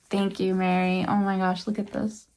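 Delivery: soft, close to tears; holding back tears. Real, not acted. Thanking the shawl maker Mary, soft and near tears. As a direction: thank her softly while fighting tears. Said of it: "I'm trying not to tear up here".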